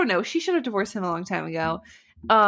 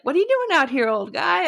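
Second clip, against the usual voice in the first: calling out; 7 semitones higher than usual. Retold or imitated. Groom calling to old Noah.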